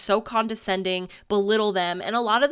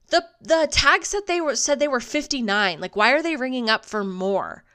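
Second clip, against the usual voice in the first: bratty daughter; 5 semitones higher than usual. Retold or imitated. Daughter voiced in story.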